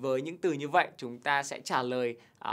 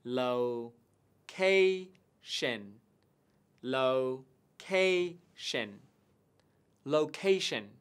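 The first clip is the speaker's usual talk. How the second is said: "location" with CA stressed; stress on second syllable; slower than usual. Shown as a demonstration. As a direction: hit the CA in "location". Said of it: "nhấn trọng âm vào âm tiết thứ hai". (nhấn trọng âm âm tiết thứ hai của "location")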